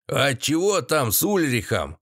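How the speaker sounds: lightly voiced old grandpa; a village elder enquiring; old man asking. A narrator's reading. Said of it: "поинтересовался дед".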